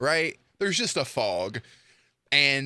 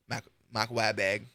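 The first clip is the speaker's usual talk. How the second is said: attempted Boston accent; failed Boston accent imitation; Mark Wahlberg; 3 semitones lower than usual. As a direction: mangle the name in bad Boston speech. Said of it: "I can't talk like, uh, Mark Wahlberg".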